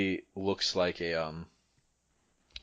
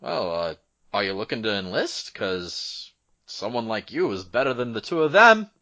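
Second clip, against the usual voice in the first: loud, raised call from a guard; shouting out; 4 semitones higher, 10 dB louder than usual. Acted. Guard asks a stranger about enlisting, shouting out. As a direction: shout it higher, building to the end. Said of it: "he shouts out".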